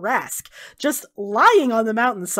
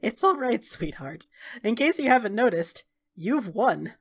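gentle reassurance. Acted. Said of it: "kind of laughs and she says".

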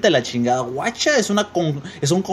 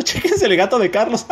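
higher, laughing as you speak; amused laughing; 12 semitones higher than usual. Real, not acted. Host showing viewers a cat picture, laughing. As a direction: crack up while pointing it out.

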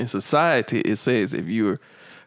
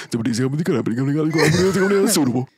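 stretched-out word; 2 semitones higher, much slower than usual. Pretend. Drawn-out mock pitch word.

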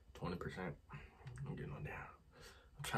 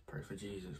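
breathless whisper; 3 semitones lower, 13 dB quieter than usual. Real, not acted. Burning mouth from spice.

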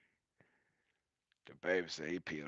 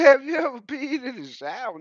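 higher, louder mama voice; imitating mama; 7 dB louder than usual. Imitating mama's question, lightly higher and louder. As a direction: ask it like a nosy mama. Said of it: "Mama said".

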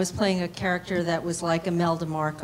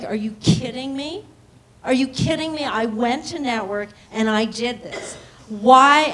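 retold indignant disbelief; 3 semitones higher than usual. Retold outrage at losing regular role.

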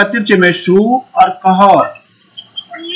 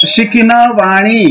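slow prompt; slower than usual. Shown as a demonstration. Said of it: "मैं बोलूंगा तो आपने आगे बोलना है".

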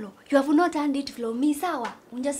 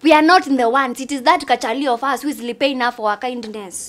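heated denial; 7 dB louder than usual. Acted. Denying starting the rumour.

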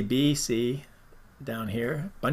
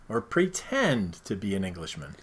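lower, softer mock English accent; one more go at the English accent; 6 semitones lower, 5 dB quieter than usual. Host playing with an English accent for the co-host. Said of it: "I said the English accent".

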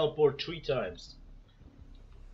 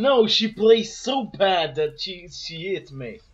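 angry rant; 4 semitones higher, 9 dB louder, slower than usual. Real, not acted. Player ranting after going down.

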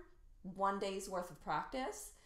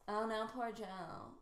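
uncaring. Shown as a demonstration. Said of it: "you don't care about Joe at all".

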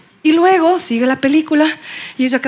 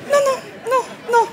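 high, soft offended no; prim, sulky denial; dignified huff; 8 semitones higher, 5 dB quieter than usual. Acted. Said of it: "Ella muy digna".

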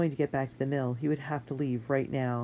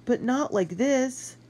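anguished; 11 semitones higher, 4 dB louder, slower than usual. Acted. Despairing plea, slowed.

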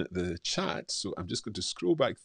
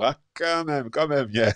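mock sympathy; 7 semitones higher, 7 dB louder than usual. Mock sympathy to viewer's hard life.

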